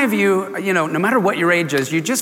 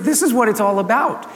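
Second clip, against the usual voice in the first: higher, mildly indignant insistence; kind of upset; 5 semitones higher than usual. Retold or imitated. Jesus correcting disciples about the children, mildly indignant. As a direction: imitate someone making an exasperated point. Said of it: "He, he kinda was upset".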